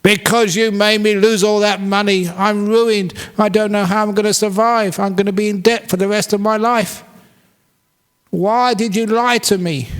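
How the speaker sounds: high, loud hammed-up wail; mock crying. Ruined farmer wails at his ox under a tree. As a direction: whine like a ruined man in tears. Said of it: "Why are you crying".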